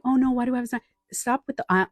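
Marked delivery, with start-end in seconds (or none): 0.0-0.8 mock panic. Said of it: "Instead of going".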